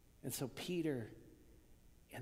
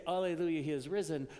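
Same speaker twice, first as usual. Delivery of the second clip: louder, higher jubilant alleluia; mock triumphant cry; 3 semitones higher, 6 dB louder than usual. Mary's imagined victory cry, loud and bright. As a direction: cheer it like an Easter shout. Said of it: "she doesn't say".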